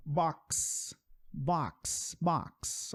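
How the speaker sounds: box spoken softly with a clear ks at the end; softly modelled box. Shown as a demonstration. Teacher repeating box softly for students. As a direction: say box gently, stressing the final ks. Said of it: "É como se você falasse isso aqui".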